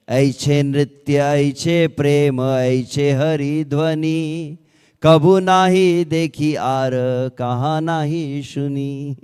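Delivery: drawn out, reverent recitation of the verse; slow verse recitation. Acted. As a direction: savour each phrase slowly, like scripture. Reciting a Bengali verse quote. (धीमा, श्रद्धापूर्ण पाठ)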